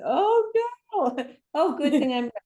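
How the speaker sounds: mock alarm, pitch jumping up; startled oh no. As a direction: replay the moment of panic. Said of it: "I said".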